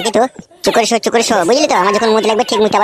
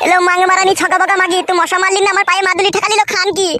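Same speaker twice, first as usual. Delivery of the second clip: high insulting rant; 6 semitones higher than usual. Acted. Husband rages at wife.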